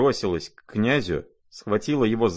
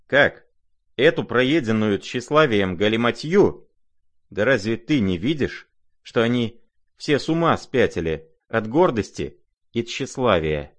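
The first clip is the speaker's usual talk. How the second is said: high, loud, scornful outburst; indignant scoff; 3 semitones higher, 4 dB louder than usual. Acted. Lizaveta mocking the prince's opinion, indignant and loud. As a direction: scoff at the foolish letter, loudly.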